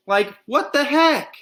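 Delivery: high, slow, outraged "what the heck"; indignant. A narrator's reading. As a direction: drag it out, offended. Girl indignant outburst.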